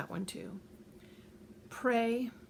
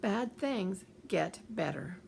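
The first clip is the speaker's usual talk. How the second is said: slow mantra; slower than usual. Shown as a demonstration. Slow repeated self-talk mantra.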